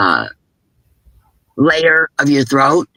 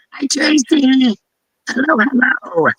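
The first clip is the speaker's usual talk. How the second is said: high, slow, drawn-out hello to a viewer; greeting a viewer who just joined, sing-song and high; 10 semitones higher, slower than usual. Real, not acted. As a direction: call out a cheery welcome.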